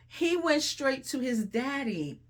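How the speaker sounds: "He went straight to his daddy" said slowly and deliberately; slow emphasis. Shown as a demonstration. Preacher repeating the line so it sinks in, slow. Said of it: "the word speaks for itself".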